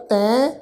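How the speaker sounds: ਤੈਂ with a nasal vowel, tain through the nose; nasal pronunciation. Shown as a demonstration. Teacher demonstrates nasal ਤੈਂ for the sangat, nasal vowel. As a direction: let ਤੈਂ end nasally. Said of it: "ਨਾਸਕੀ tone ਨਾਲ".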